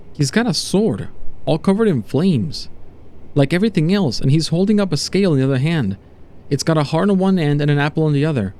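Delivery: lightly voiced, troubled account; uneasy test subject. Subject to doctor about being judged, uneasy. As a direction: report each detail with a touch of dread. Subject describes judging figure.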